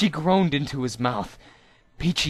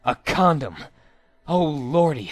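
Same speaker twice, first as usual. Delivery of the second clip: a louder, thrilled gasp of discovery; excited discovery; 4 dB louder than usual. A narrator's reading. Minjo spots the condom in her pocket, thrilled exclamation. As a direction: blurt out the find with a jolt.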